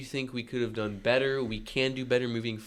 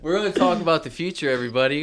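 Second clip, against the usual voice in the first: louder, higher, fast, laughing; hyped announcer; 3 semitones higher, 5 dB louder, faster than usual. Acted. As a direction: hype it up like a host. Mock announcer hype, laughing.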